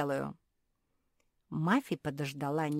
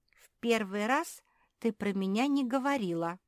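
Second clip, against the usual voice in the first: high, louder little-creature voice; raised-pitch peep of protest; squeaky; 6 semitones higher, 5 dB louder than usual. A narrator's reading. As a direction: squeak an offended objection. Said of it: "пропищала Тушканиха".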